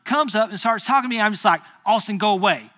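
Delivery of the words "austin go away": firm, irritated send-off; mildly heated command; retold angry dismissal. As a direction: re-enact brushing off a teenager.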